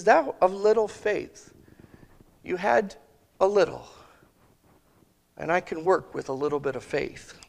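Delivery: lightly voiced Jesus, tender and encouraging; gentle encouragement. Preacher voices Jesus reassuring Peter, gently tender. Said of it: "But he doesn't say that to me".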